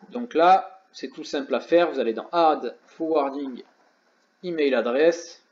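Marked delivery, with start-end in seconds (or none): 2.3-5.4 English menu words read with a heavy French accent, slowed on the last words. Real, not acted. Tutorial host reading English Shopify menus to viewers, heavy French accent. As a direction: sound out the English labels the French way, self-mocking. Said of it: "Désolé, mon accent anglais est excellent".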